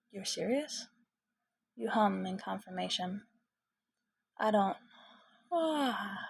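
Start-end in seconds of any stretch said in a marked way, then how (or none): 5.5-6.2 higher, sleepy open-mouthed yawn. Acted. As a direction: let a tired yawn escape. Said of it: "you yawn".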